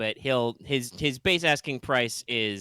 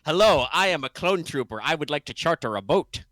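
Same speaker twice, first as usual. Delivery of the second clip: loud, higher goofy announcement; mock yell; 5 semitones higher, 7 dB louder than usual. GM shows the blunder, yelling it out loud. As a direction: blurt it out like a fool. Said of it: "by yelling out".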